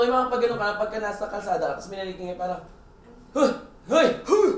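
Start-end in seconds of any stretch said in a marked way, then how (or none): 3.3-4.5 short, high mock hollers; loud, pitched-up calls to get attention; imitated street calls. Mimicking people calling out on the road, loud mock hollers.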